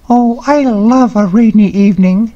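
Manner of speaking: put-on delighted child's voice; little girl's voice. A narrator's reading. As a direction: read it as an eager small child. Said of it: "said little Anne".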